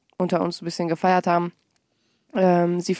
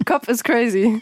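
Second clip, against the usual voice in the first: slower, laughing through it; laughing repeat; 3 semitones higher, slower than usual. Shown as a demonstration. Joking about her own head to the host, laughing. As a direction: chuckle while repeating it.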